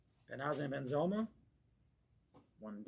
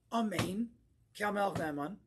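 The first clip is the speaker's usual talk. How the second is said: loud, raised proclamation; emphatic, no whispering; 7 semitones higher, 6 dB louder than usual. Shown as a demonstration. Rabbi showing congregation how to answer a blessing, loud and emphatic. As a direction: call out the response with conviction. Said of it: "You're gonna whisper that?".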